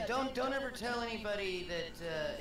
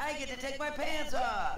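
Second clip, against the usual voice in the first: laughing joke; 8 semitones higher, 4 dB louder than usual. Pretend. Joking excitedly, laughing.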